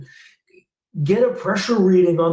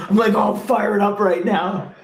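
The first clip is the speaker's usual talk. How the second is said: fired up laughing; 3 semitones higher than usual. Real, not acted. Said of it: "I'm getting all worked up".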